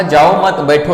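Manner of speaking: "जाओ मत" grouped together, then "बैठो"; pause after मत. Shown as a demonstration. Teacher quotes the host, pause after मत. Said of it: "अभी सामने वाला क्या बोल रहा है".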